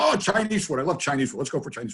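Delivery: high-pitched burst of delight; delighted dad impression. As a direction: pounce on the food suggestion as the dad. Dad delighted by food suggestion.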